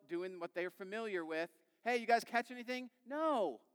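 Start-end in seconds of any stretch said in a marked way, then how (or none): 1.8-2.9 higher, louder shout to a boat; hailing call. Acted. Stranger on shore to the guys in the boat, hailing call. 3.1-3.6 high, loud call back; shouted refusal. Acted. Men in the boat to a stranger, shouted reply. Fishermen's curt answer to stranger.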